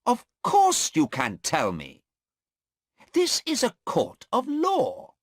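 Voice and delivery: angry lawyer. Acted. Mister Cheng angrily insisting the policeman must answer. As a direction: insist hard in court. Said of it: "Mister Cheng asked very angrily".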